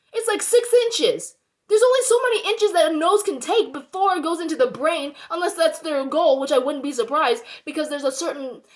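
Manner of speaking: indignant and getting carried away; worked up. Real, not acted. Ranting about nasal swabs to viewers, worked up. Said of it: "I'm getting so worked up".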